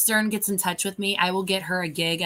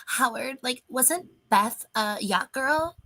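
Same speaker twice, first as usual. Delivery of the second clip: put-on slow, higher little-girl voice; baby voice; 5 semitones higher, slower than usual. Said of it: "In a baby voice".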